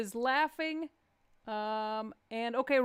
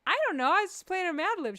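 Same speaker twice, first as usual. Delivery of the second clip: high, louder defensive whine; whiny self-imitation; 9 semitones higher, 6 dB louder than usual. Comedian quoting herself to her wife, high whiny. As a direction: play yourself as clueless and defensive. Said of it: "I was like".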